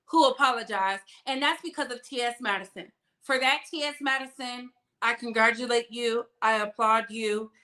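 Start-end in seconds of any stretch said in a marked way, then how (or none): none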